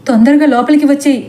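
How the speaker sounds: quick, urgent mild mock yell; urgent calling out. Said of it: "గట్టిగా అరుస్తూ చెబుతుంది సీత".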